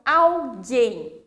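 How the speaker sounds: alguém with a hard G and no U sound; emphatic hard-G alguém; silent U. Shown as a demonstration. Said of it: "como que fica".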